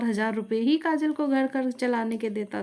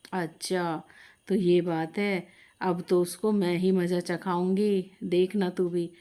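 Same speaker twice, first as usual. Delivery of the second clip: grim threat; 5 semitones lower than usual. Acted. Mother-in-law vows revenge.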